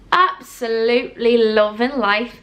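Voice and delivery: slow, put-on accent between Midlands and North; awful Midlands-Northern accent. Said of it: "I don't know what that accent was".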